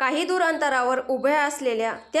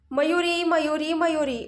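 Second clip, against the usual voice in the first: shouting her name; 4 semitones higher than usual. A narrator's reading. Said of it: "Anay तिला हलवत जोरात ओरडतो".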